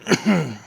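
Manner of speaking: throat clearing from dust; coughing on dust. Real, not acted. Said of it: "dust is getting to me".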